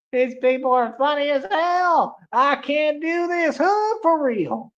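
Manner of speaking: high, giggly disbelief; laughing. Real, not acted. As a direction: squeak it out through laughter. Cracking up at chat.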